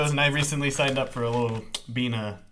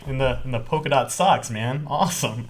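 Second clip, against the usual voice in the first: sarcastic. Retold or imitated. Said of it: "Very sarcastic".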